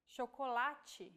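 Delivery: chocolate in Portuguese, CH as SH, sho-ko-LA-tchi, slowly; CH digraph demo. Shown as a demonstration. Teacher shows the CH digraph slowly to learners. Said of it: "we have the sound".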